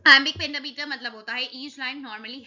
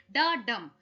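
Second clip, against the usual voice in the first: डा tossed off quickly, डम held longer; short डा, drawn-out डम; stress on डम; slower than usual. Shown as a demonstration. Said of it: "ड फटाक से निकल गया". (डा फटाक से, डम पर टाइम लगाकर)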